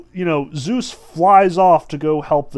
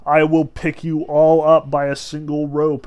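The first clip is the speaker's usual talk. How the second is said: booming Zeus; 8 dB louder than usual. Retold or imitated. Zeus booming his might at the other gods. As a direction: thunder it out like an almighty god. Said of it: "you've got Zeus saying".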